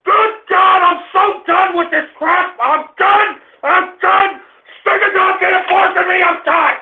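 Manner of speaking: exasperated shouting in short bursts; fed-up rage. Real, not acted. Host quits on his disrespectful audience, shouting fed up. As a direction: yell that you've had enough.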